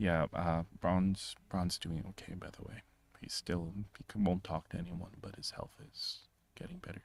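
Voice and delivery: very hushed, very quiet, under the breath. Voicing a woman speaking to the party as they leave for their mission, very quietly. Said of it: "she also says like very quietly".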